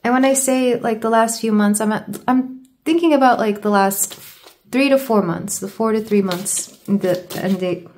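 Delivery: halting, stumbling restarts; stuttering. Real, not acted. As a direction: trip over the words. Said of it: "Sorry, I'm stuttering today".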